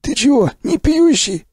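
can't believe his ears; surprised. Acted. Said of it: "удивился Сиплый".

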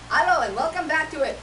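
lilting mock Indian accent; practised Indian accent. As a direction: open the show in imitation Indian accent. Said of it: "I have to practice my accent".

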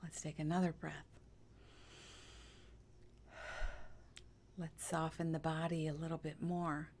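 calm, hushed meditation voice; guided meditation. Acted. Guide softening listeners into stillness, calm meditation voice. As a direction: lead them gently into stillness, leaving long pauses.

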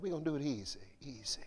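breathy whisper in the style of a famous singer. Retold or imitated. Preacher quoting the singer, low and whispered. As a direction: purr it like the song intro. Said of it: "a singer".

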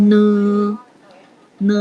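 "เนอ" held long, slightly in the nose; slightly nasal sound. Shown as a demonstration. Teacher shows pupils the nasal sound, sustained "เนอ". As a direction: let "เนอ" hum a little through the nose. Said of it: "จะขึ้นจมูกนิดนึงนะลูก".

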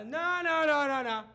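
loud, high rapid-fire refusal; dad catching kid out, retold; urgent objection. Acting out grabbing son's iPad.

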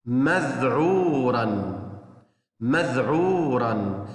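مذعورا drawn out slowly for the class; slow, clear model reading; slow teaching read. Shown as a demonstration. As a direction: stretch the word so children can repeat. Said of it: "الكلمة الثانية".

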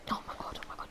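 awed whisper. Real, not acted. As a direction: whisper in disbelief. Unvoiced whisper.

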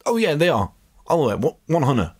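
playful overconfident guru; mock certainty. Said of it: "He's like".

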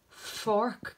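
"Fork" said slowly, each sound stretched, long K at the end. Shown as a demonstration. Teacher to class, stretching out "Fork". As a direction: model "Fork" for children. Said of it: "Could you tell the hearing?".

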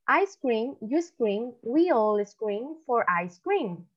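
slow, clearly separated tongue twister; demostración pausada. Shown as a demonstration. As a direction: model it slowly for learners to repeat. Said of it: "yo ahorita les voy a decir". (trabalenguas dicho despacio)

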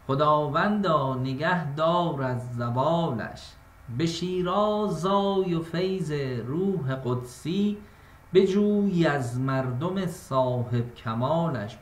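slow, measured verse reading; poetic recitation. Shown as a demonstration. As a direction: draw out each line like classical poetry. Recites Hafez verse slowly.

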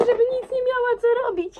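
fast, high, gleeful; excited. Real, not acted. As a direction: rush it out with glee. Scheming prank, excited.

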